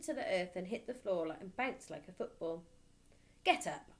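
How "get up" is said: louder barked order. Acted. Headmistress ordering the boy up, a bark. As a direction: bark it flatly. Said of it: "the Trunchbull barked".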